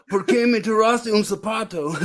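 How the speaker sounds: put-on high American-accented Spanish; George Bush. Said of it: "my George Bush in Spanish".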